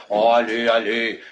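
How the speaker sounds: acted coaxing, starting low; mock-tender husband; sweetly conciliatory. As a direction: make up gently after a quarrel. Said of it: "tout gentil, tout mignon".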